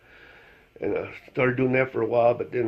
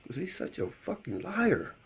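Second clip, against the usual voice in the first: higher, put-upon owner voice; higher, fed-up dog owner voice; deadpan punchline; 8 semitones higher, 5 dB quieter than usual. Retold or imitated. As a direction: toss off the punchline like it's obvious. Owner delivers joke punchline.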